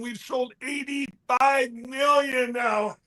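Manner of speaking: proud boast. Real, not acted. Boasting sales figure.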